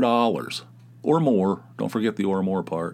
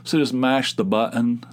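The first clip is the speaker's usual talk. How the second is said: Southern-Northeast mix. Shown as a demonstration. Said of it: "where you say mash".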